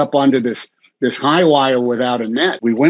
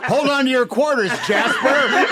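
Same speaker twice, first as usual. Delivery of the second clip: put-on old-timey character; 12 semitones higher than usual. Old-timey movie line.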